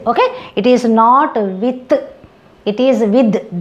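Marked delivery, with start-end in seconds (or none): 1.3-1.9 with ending in a hard t; wrong with. Shown as a demonstration. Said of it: "da, da". 3.0-3.6 with ending in a voiced th like da; right version. Shown as a demonstration. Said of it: "da, da".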